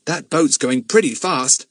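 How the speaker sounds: put-on a curious boy checking a find; boy asking Bill about the battery; boy's voice. Philip watching.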